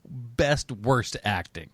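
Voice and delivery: drawn-out award title; slow announcement. Shown as a demonstration. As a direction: savour each word slowly.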